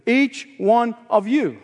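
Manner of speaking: slow, falling "Each one of you"; stress on each. Shown as a demonstration. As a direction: land each word slowly, ending on "you". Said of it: "the pronoun each here is in the emphatic position".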